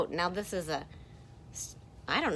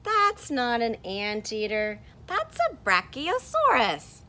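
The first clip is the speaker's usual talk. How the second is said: character voice; 3 semitones higher, 6 dB louder than usual. Acted. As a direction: firmly put the other one right, a bit louder. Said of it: "And this one says".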